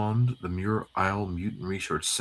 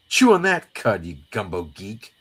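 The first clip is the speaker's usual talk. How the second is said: taunting comic sidekick. Acted. Acting Jubilee insulting Gambit.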